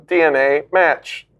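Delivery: robotic computer voice; flat machine announcement; automated voice. Acted. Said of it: "you hear a voice go".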